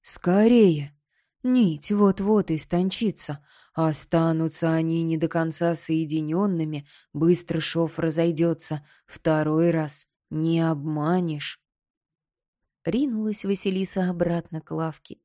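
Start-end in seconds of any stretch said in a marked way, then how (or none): 0.0-11.6 urgent skull. Acted. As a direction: hurry her up, alarmed. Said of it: "прикрикнул на неё Найдён". (встревоженный череп)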